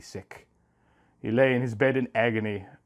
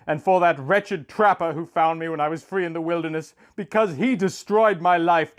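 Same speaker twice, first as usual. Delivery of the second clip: tearful prayer; 6 semitones higher, 3 dB louder than usual. A narrator's reading. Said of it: "the tears poured down his cheeks".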